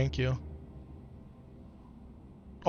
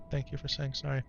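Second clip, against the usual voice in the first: softer, tender repeat to his son; soft thanks; 6 dB quieter than usual. Real, not acted. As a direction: say it again gently and quietly. Thanking son after an apology.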